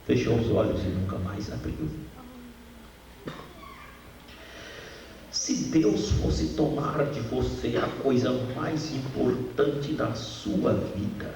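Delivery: voz grave e lenta, comovida; emocionado. Real, not acted. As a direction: conte devagar, com a dor ainda viva. Pregador conta a morte da filha. (voz embargada e lenta)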